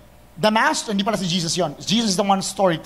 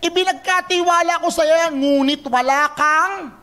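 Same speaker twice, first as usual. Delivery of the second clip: stern rebuke, fading on the last word; angry master; 4 semitones higher than usual. Retold or imitated. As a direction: scold the servant for wasting the trust. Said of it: "Galit na galit si Lord".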